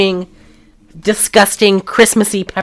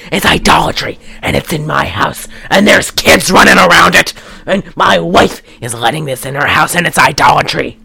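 mock insane rant at a lower pitch; Darren; 3 semitones lower than usual. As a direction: imitate an agitated zealot listing outrages. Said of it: "He sounds like he's insane".

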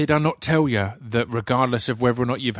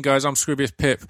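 ordinary delivery

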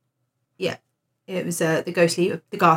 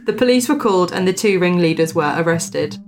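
measured storyteller's read-aloud; story narration. Acted. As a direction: read out an old ghost report with deliberate emphasis. Reads a ghost story aloud.

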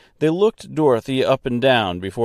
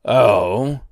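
lightly gruff doorkeeper voice; a throaty, dismissive reply from the gatekeeper; a touch of throaty growl; 4 dB louder than usual. Acted. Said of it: "throaty and gruff".

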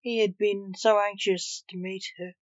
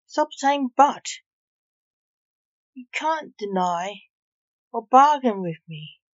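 exasperated Reaper, pitched up and louder; huffy, irritated; 4 semitones higher, 5 dB louder than usual. Acted. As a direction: huff at her to stop. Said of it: "The Reaper huffed".

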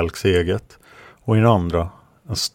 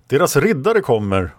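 raised-pitch lookout call; called warning; 6 semitones higher, 3 dB louder than usual. A narrator's reading. Jaran warns of approaching knights, high called warning. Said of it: "ropade Jaran".

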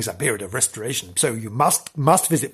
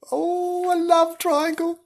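scandalised; slower than usual. Acted. Mock-gasping at the gossip.

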